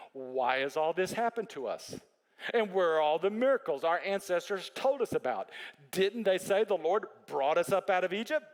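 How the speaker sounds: dry, mocking complaint to God; sarcastic tone. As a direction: throw the promise back sarcastically. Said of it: "saying this in the, a very sarcastic tone".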